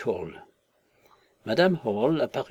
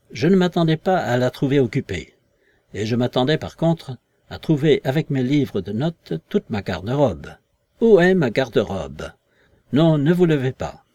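louder, insistent voice; invisible man demanding; 6 dB louder than usual. Acted. Invisible man demands his wardrobe from the visitors, louder and insistent. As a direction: press them hard about the missing clothes.

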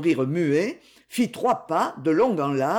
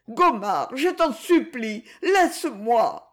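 pleading; 5 semitones higher, slower than usual. Acted. Woman begs, clinging.

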